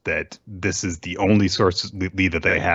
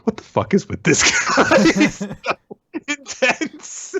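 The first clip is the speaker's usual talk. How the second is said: a much higher, louder, laughing rant; a shrill-free but high, loud mock freak-out; 5 dB louder than usual. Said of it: "is like".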